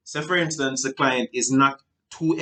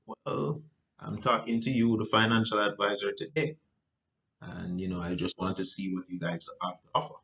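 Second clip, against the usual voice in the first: calm client; 4 semitones lower, 7 dB quieter than usual. Retold or imitated. John answers calmly.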